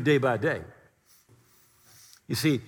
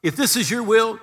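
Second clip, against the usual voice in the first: mock pleading prayer; 6 semitones higher, 5 dB louder than usual. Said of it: "We're, we're like".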